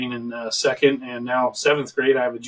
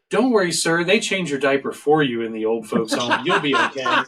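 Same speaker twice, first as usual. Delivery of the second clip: mock condescending reassurance; 3 semitones higher than usual. Employee reassuring a dad like an old man, mock patronizing. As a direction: talk to him like a fragile old man. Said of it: "The way she said it was like".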